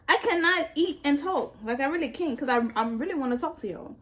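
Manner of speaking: eating while talking; mouth full. Real, not acted. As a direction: talk through a mouthful. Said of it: "let my food get cold".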